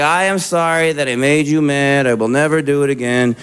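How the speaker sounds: dutiful, rote apology like a pledge; mumbled pledge. Retold or imitated. Married friend apologizing to his wife like a child. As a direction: recite it like the Pledge of Allegiance. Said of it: "he's just like".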